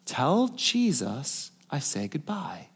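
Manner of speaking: slow, deliberate, clearly spoken quote; retold last words, spoken clearly and unhurriedly; clearest voice. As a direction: say it slowly, every word distinct. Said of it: "in the clearest voice I've ever heard him talk".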